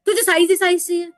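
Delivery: put-on old vendor scolding the speaker, loud and bitter; harsh retort. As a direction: snap back at the fussy buyer. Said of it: "पलटकर उल्टा बोल रहे थे".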